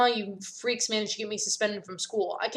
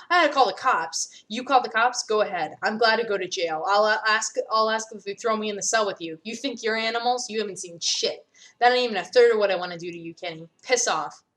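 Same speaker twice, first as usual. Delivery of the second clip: heated threat; 4 dB louder than usual. Acted. Carmen and Kenny threatening each other.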